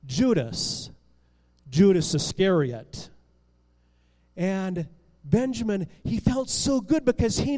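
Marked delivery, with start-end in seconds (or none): 0.1-3.1 much lower, weighty man's voice; the stranger names himself, low and grave; ominous reveal. A narrator's reading. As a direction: drop low for the dark reveal. Man reveals his name.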